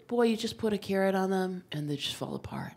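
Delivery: a hint of a gentle Scandinavian doctor; gentle, soft doctor. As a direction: speak softly to reassure her like a kind doctor. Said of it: "here's the speech".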